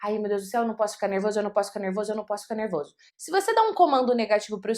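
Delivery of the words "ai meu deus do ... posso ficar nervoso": low, hushed, repetitive nervous self-talk; softly acted fretting under the breath; anxious self-talk. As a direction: mutter a worried mantra to yourself, quieter and lower. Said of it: "Elas ficam dando comando negativos pro seu cérebro".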